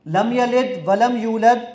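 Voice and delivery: slow, careful misreading of "لم یلد ولم یولد" to test the app; deliberately wrong recitation. Shown as a demonstration. Testing the app with a misread "لم یلد ولم یولد", slow deliberate errors. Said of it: "میں اس کو اب غلط پڑھوں گا".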